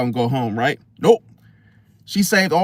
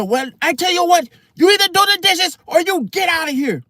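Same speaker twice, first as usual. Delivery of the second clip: mimicking the manager; 11 semitones higher than usual. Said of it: "She said".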